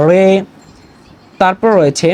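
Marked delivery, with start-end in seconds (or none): 0.1-0.3 carefully articulated Urdu letter "রে"; careful pronunciation demo. Shown as a demonstration. Teacher showing learners how to sound "রে", careful pronunciation demo. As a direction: say "রে" distinctly, as a model to copy. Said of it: "উচ্চারণটা একটু খেয়াল করবেন".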